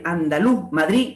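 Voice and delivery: ANDALUZ and MADRID cut off on the stressed vowel; dropped final consonants. Shown as a demonstration. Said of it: "pérdida de las consonantes finales".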